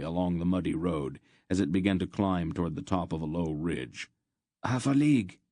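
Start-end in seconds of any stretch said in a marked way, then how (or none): 4.6-5.4 tense. A narrator's reading. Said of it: "Loldoran said tensely".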